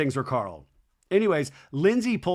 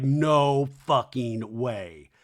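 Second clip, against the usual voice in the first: drawn-out imitation of being stunned; mock disbelief; 3 semitones lower, much slower than usual. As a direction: stretch each word very slowly. Voices a friend's stunned face.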